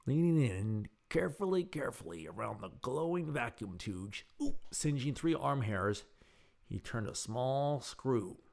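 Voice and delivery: softening, suspenseful storyteller; careful story narration. A narrator's reading. Narrator following a delicate screw adjustment, in hushed story narration.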